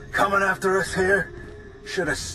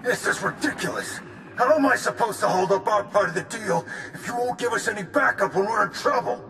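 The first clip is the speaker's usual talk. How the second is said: indignant protest; 3 semitones higher than usual. Acted. Gang member protests in intercepted quarrel.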